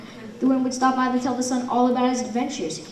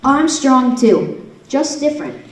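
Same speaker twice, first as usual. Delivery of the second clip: hurt sun; 4 semitones higher, 8 dB louder, slower than usual. Acted. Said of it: "The sun's feelings were hurt".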